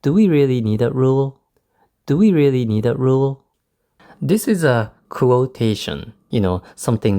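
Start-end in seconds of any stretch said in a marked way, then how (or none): 0.0-3.4 "Do we really need that rule?" asked with rising intonation; rising question intonation. Shown as a demonstration. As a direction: quote yourself questioning, "rule" lifted as a question. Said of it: "I used the rising intonation".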